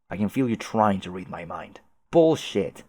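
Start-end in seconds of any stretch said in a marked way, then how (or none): 2.1-2.8 scoffing. Acted. Sharp denial.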